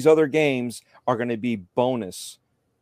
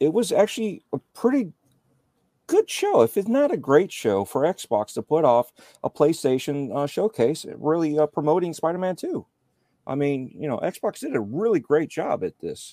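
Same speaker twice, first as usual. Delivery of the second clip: heavy sarcasm, fake sincerity, swooping sing-song; 4 semitones higher than usual. Speaker giving an opinion on a showcase to 'you guys', sarcastic. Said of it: "If you guys can't tell my sarcasm".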